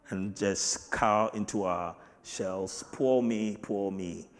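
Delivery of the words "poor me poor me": mocking whiny "poor me", fading; mock self-pity. Preacher mocking believers who wallow in "poor me". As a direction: imitate a sulking pity party. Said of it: "have our little pity parties".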